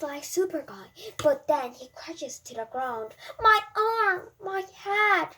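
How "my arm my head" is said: high, loud hurt cry; crying in pain. A narrator's reading. Boy after falling from the bars, crying in pain. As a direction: wail from the fall. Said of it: "cries Andy in pain".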